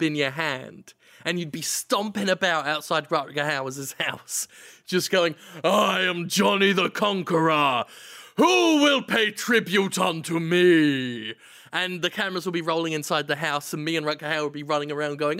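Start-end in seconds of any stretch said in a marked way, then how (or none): 5.6-11.3 booming barbarian proclamation, drawn out at the end; barbarian conqueror. Pretend. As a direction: announce yourself like a pompous conqueror. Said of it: "sort of like a Conan the Barbarian".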